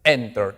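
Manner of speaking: "Enter" as EN-ter, falling after EN; stress on the first syllable. Shown as a demonstration. Teacher repeating the correct form for students, first-syllable stress. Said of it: "Mayor fuerza de voz delante".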